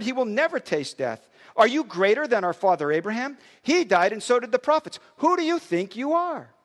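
a touch of challenge in the reading; scripture reading. Acted. Pastor reading the Jews' retort to Jesus, mild indignation.

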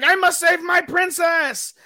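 high, drawn-out hero's battle cry; heroic mock shout. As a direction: holler it as a hammed-up rescuing hero. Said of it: "and is like".

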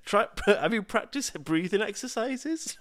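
high, slowed-down gadget concern; nagging phone alert. Retold or imitated. Phone pestering a stressed presenter, high mock-helpful voice. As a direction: imitate an over-helpful device. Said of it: "my phone just alerted me saying".

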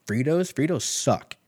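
ordinary talk

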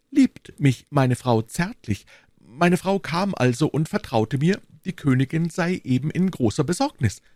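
a nervous little merchant confiding; Bonacieux voice. Acted.

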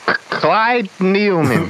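high, slow name reveal; dramatic announcer name. Acted. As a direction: draw out the name grandly.

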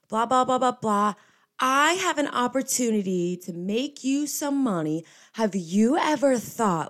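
put-on high, bubbly Southern girl voice; Southern accent. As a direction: gush in a thick Southern drawl, way up high. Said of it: "thick Southern accent".

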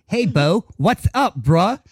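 a hint of an awkward, too-eager white boss saying bruh; imitating the store manager's white-sounding hello; mock white manager greeting. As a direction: lightly put on a stiff, trying-too-hard greeting. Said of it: "he said it with such a white".

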